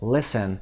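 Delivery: Listen said lis-en with no t sound; silent t. Shown as a demonstration. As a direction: drop the t in Listen. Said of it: "تی رو تلفظ نکنید". (لیسن بدون تلفظ تی)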